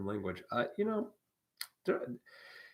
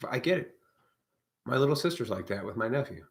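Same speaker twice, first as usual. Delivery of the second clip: ordinary talk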